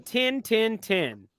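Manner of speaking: tin tin tin, short flat Yorkshire vowel in tin; light Yorkshire accent demo of ten. Shown as a demonstration. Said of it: "if you wanna do a Yorkshire accent".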